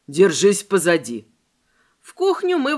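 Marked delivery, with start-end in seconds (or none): 0.1-1.3 stern command. Acted. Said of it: "строго скомандовал".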